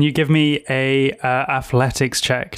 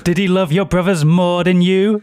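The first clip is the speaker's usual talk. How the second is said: crone voice; 5 semitones higher than usual. Acted. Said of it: "she says".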